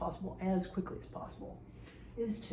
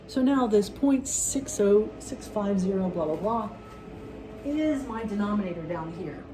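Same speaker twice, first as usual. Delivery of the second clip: louder, pushing over the noise; yelling over leaf blower; 4 dB louder than usual. Real, not acted. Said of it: "Really apologize about the leaf blower".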